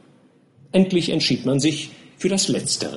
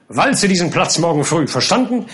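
stern captain; 4 semitones higher than usual. Acted. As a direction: bark orders at the gardener. Captain orders gardener. (herrischer Captain)

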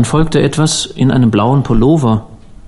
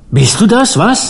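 bitter anguish; 9 semitones higher than usual. A narrator's reading. Bereaved stranger challenges the preacher.

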